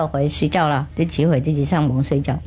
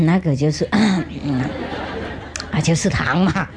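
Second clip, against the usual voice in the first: embarrassed; 4 semitones lower than usual. Acted. Master admits lie, embarrassed.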